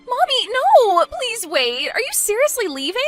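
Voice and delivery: high-pitched panicked cry; desperate plea. Acted. Bride begs her departing mother to wait, desperate plea. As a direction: call her back urgently, pitch way up.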